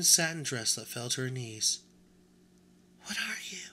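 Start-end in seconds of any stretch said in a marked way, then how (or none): 3.0-3.7 much higher, soft and prissy; a vain china doll sizing up a stranger; high-pitched doll voice. Acted. China doll asks the new rabbit what he is, high-pitched. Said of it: "in a high-pitched voice".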